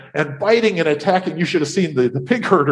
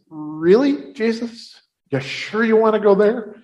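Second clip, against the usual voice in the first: reluctant, higher-pitched questioning; doubtful questioning; 4 semitones higher than usual. Acted. Disciple to Jesus about the landing spot, doubtful. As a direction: question it as if hoping for another answer.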